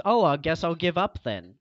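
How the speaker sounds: imitating a quitter's sulk; mock defeatist attitude. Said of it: "your attitude is just".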